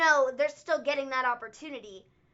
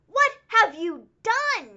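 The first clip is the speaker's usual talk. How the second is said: slow and louder, each word leaned on; exasperated emphasis; 7 semitones higher, 7 dB louder, slower than usual. Real, not acted. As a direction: plead it slowly at WWE. WWE, what have you done.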